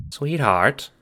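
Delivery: lightly voiced old Nana; Nana's voice. A narrator's reading. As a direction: speak as a kindly old grandmother.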